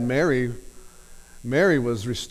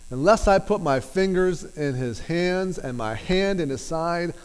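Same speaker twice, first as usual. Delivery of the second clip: emphatic Thomas; 5 semitones higher than usual. Retold or imitated. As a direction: plant your feet and refuse to budge. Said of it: "That's pretty emphatic".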